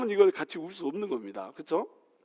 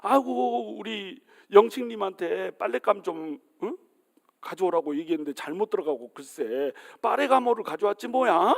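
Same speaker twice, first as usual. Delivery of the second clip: higher, mock-bragging housewife chatter; boastful gushing; 4 semitones higher than usual. Wife showing off her husband to other women, boastful. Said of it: "뭐라고 자랑하냐면".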